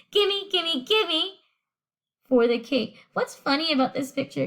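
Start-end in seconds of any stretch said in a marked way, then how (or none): 0.1-1.4 a hint of a higher, greedy gimme; princess's greedy demand. Teacher recalls princess demanding cake, lightly higher and greedy. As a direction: lightly replay the princess begging. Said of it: "just like how Princess Penelope said".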